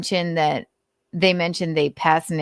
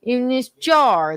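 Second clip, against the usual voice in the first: mock cop puzzlement; 6 semitones higher than usual. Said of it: "They're like".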